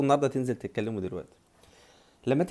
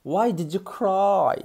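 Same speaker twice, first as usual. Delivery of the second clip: slow, higher, word by word; slow teaching; 7 semitones higher, 5 dB louder, much slower than usual. Shown as a demonstration. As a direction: give learners a slow model. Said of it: "Cry معناه يبكي".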